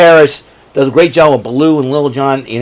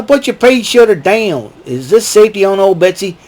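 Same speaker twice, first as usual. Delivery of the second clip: higher drawling cartoon vulture; Trigger voice; 6 semitones higher than usual. Trigger asks the sheriff about his crossbow, lightly voiced. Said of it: "Trigger and Nutsy".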